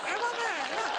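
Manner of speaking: high, taunting sing-song; gloating. Acted. Comedian mocking the complainer, high taunting. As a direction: tease like a schoolyard bully.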